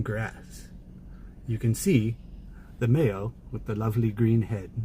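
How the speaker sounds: lightly voiced British nature narrator; measured, phrase-by-phrase wildlife commentary, lightly British; David Attenborough. Streamer showing off an impression over mallards, mild British narrator. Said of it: "David Attenborough".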